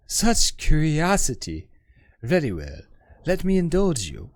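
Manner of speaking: lightly voiced learned woman, wistful; poised scholar woman. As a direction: speak as a refined, self-assured scholar. GM voices the hive-mind woman.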